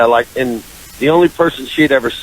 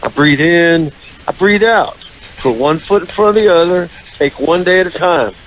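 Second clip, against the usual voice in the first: higher, measured coping lecture; pointed mock mantra; 4 semitones higher than usual. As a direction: recite it at him like self-help steps. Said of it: "I literally grabbed him by the arm and I went".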